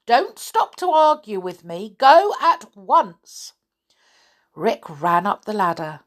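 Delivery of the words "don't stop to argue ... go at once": high, loud, slowed commands; old woman crying out. Acted. Old woman shooing Rick, high loud orders. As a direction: shove him off with a fierce cry. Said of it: "pushed him away and cried".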